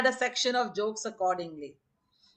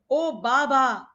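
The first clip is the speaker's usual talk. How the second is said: drawn-out, louder mock English protest; Delia's English accent; 3 semitones higher, 6 dB louder, slower than usual. Delia protests to Baba, imitated distinctive English accent. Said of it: "imitated Delia's distinctive English accent".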